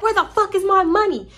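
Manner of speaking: high, mock yelled demand; imitating a yell. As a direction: throw her furious yell at the room, pitched high. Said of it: "Jaleesa get the yelling".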